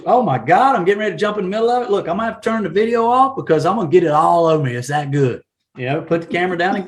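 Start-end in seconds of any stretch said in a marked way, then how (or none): 0.1-5.4 quick, hammed-up foodie gushing; mock food-video excitement. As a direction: gush hurriedly over a sandwich for the camera. Acting out an enthusiastic food video.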